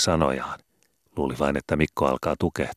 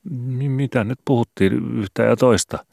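higher, slow, stammering evasive reply; stammering son; 9 semitones higher, 5 dB louder than usual. Acted. Guilty son dodging his father: high, slow stammer. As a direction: stumble over the words to dodge the question.

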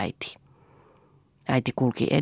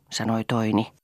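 usual speaking voice

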